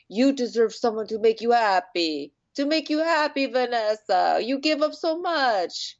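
high, drawn-out mock plea; imploring sister. Sister telling Vanessa she deserves happiness, mock imploring. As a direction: implore her, hammed up and pitched high.

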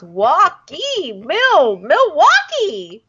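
Milwaukee stretched out slowly; slow savoring. Shown as a demonstration. Friend relishing the word Milwaukee, slow. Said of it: "I just like the way that sounds".

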